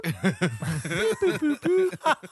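robot voice. Pretend. Robot noises continued.

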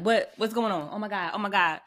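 lightly acted panic, quick startled questions; mock freak-out. Speaker imagines waking on the boat in a storm, mildly acted freak-out. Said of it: "I'm freaking out".

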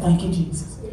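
low, soft retold prayer; quiet prayer. Woman recalling her sleepless-night prayer, low and soft. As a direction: murmur it low, as if in bed at night.

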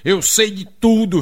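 bronca encenada, lenta e pesada; marido gritando brabo. Acted. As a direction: acuse devagar, fingindo fúria. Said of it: "foi logo gritando". (marido brabo, acusando pausadamente)

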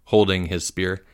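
usual speaking voice

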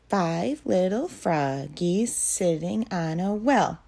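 rhythmic sing-song poem reading; poem recitation. Acted. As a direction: recite it evenly for little kids.

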